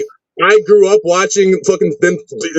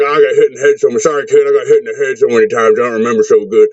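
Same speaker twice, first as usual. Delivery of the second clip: put-on slurred, punch-drunk old wrestler; 5 semitones lower than usual. Wrestler mimicking battered old-timers he heard when younger, slurred old-man voice. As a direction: imitate an old wrestler, words running together and slurred. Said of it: "I would hear old wrestlers be like".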